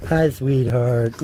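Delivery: slow, tender hi to a pet; slow pet talk. Real, not acted. Petting a dog, slow tender pet talk. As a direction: draw it out gently for the dog.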